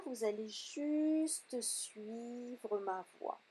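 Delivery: measured yoga nidra instructions, unhurried pauses; guided meditation. Real, not acted. Teacher leading students toward the edge of sleep, guided meditation voice. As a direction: guide them calmly inward, one phrase at a time. Continues guiding the relaxation.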